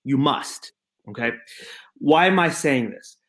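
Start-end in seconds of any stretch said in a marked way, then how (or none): 0.0-0.7 Dieter impression. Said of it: "he always tells people to stop dancing by saying".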